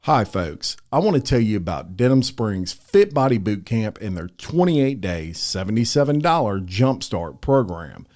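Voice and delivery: measured, friendly podcast ad read; sponsor ad read. Acted. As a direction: read it as a polished sponsor spot. Reads a sponsor ad.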